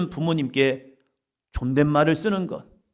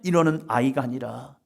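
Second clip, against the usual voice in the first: usual speaking voice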